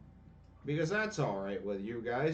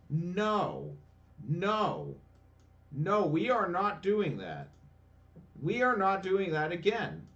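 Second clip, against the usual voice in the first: angry refusal; 3 semitones higher than usual. Real, not acted. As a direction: slam the door on it, fed up. Refusing the rematch angrily.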